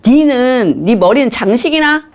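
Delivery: high-pitched, scolding Gangneung dialect; 강릉 사투리. Acted. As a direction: tell off a husband in Gangneung dialect. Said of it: "강릉 사투리를 한번 해볼게요". (강릉 사투리로 높게 따지는 말투)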